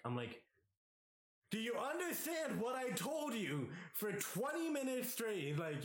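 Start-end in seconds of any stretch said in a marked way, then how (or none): 1.5-5.4 pitched-up exasperated retort at a friend; exasperated high yell. Retold or imitated. Scolding a drunk friend, high exasperated yell. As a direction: voice shooting up in disbelief. Retold angry reply to friend.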